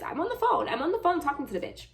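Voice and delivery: laughing. Real, not acted. Laughing aside about the caller.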